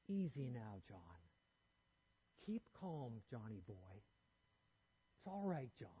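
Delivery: put-on soft, calm dad soothing his toddler; quiet, unruffled father's voice; spoke softly. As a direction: hush it down to calm a fussing boy. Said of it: "he spoke softly".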